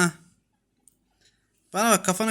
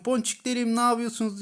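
fond call to kittens; 6 semitones higher than usual. Retold or imitated.

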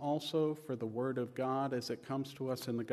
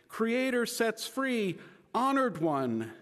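raised, higher-pitched call to an honored man; calling out loudly; 10 semitones higher, 8 dB louder, slower than usual. A narrator's reading. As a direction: call out from a respectful distance, within a reading. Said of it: "called out loudly".

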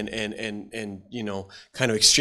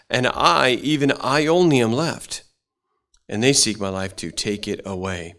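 solemn King James reading, building louder on the complaint; scripture reading; 4 dB louder than usual. Acted. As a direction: read the old verses out with weight. Reads Elijah scripture aloud.

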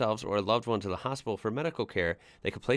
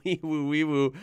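laughing imitation of a siren; mock siren yell; 4 semitones higher than usual. Reading out a broken-arm story, mock siren yell. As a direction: wail it like a siren, half laughing. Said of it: "lean out the window and yell".

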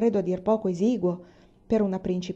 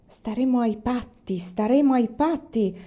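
through gritted teeth; 3 semitones higher than usual. Acted. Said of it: "un poco a denti stretti".

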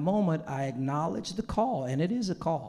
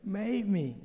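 quiet echo; 2 semitones higher, 5 dB quieter than usual. Retold or imitated. Echo after long pause.

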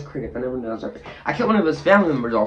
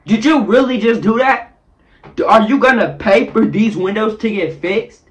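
incredulous scolding; 4 semitones higher, 4 dB louder than usual. Retold or imitated. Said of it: "I'm looking at him like".

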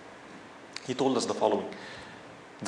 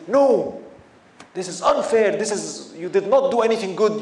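higher and louder, a hint of an ungrateful Bedouin's protest; rude indignant retort; 4 semitones higher, 3 dB louder than usual. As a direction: snap back rudely, acted lightly. Bedouin rudely denies in front of everyone.

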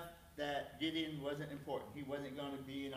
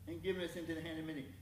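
sarcastic complaint. Acted. Gideon blaming God to the angel, sarcastic complaint. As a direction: stretch out the grievance with attitude. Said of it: "I'm gonna put some sarcasm in this".

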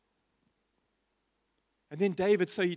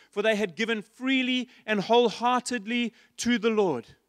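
scripture reading; 2 semitones higher, 4 dB louder than usual. Acted. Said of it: "It says".

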